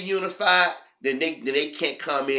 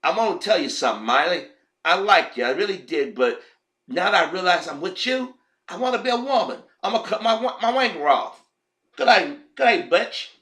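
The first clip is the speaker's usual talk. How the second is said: mock husband; 3 semitones higher than usual. Mock husband announcing to Miley.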